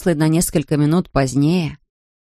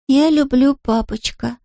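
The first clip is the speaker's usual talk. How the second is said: put-on drowsy toddler drifting off; sleepy Scottish-accented small boy; sleepy child; 8 semitones higher, slower than usual. A narrator's reading. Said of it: "сонно проговорил Харри".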